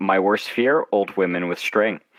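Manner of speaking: usual speaking voice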